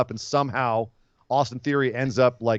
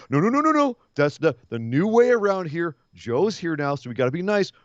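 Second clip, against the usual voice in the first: mock Johnny.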